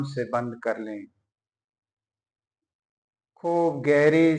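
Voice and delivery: measured meditation voice with long pauses between phrases; guided yoga nidra. Acted. Teacher guiding lying listeners through breathing and prayer, measured meditative delivery. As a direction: guide them into relaxation, phrase by phrase.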